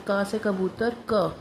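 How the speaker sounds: slow, teaching sing-song; slow letter with picture word; slow picture recitation. Shown as a demonstration. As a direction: say it slowly so the child can copy. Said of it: "बच्चे को picture तो भी करानी है".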